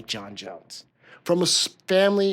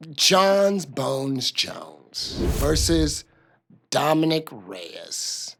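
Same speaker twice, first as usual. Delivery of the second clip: arena announcer; much slower than usual. Pretend. Announces the next fight matchup.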